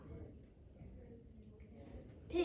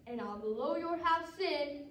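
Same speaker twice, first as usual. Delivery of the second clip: wolf's threat; 5 dB louder, slower than usual. Acted. Wolf threatens to blow house.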